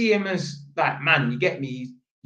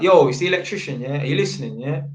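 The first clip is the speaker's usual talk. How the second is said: street talk; 4 dB louder than usual. Retold or imitated. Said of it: "you're trying to talk like man".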